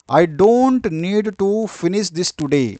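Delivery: very slow, spaced heading read; teacher dictating a heading slowly; slow dictation. Shown as a demonstration. Reads example out slowly.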